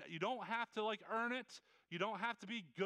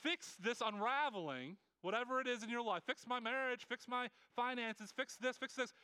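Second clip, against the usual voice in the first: higher, urgent begging to God; pleading believer; 4 semitones higher than usual. Retold or imitated. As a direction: beg God to fix it, a touch desperate. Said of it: "we're like".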